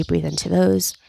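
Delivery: whispered gentle instruction. Acted. Soft guidance into body.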